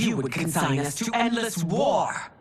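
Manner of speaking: angry shout. Acted. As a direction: snap back hotly at the general. Empress argues with general.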